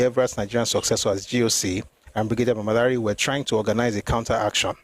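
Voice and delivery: measured, formal reading from a book; read-aloud narration. Acted. Reader recounting the night of the mutiny to listeners, read-aloud narration. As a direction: read the account out evenly, phrase by phrase.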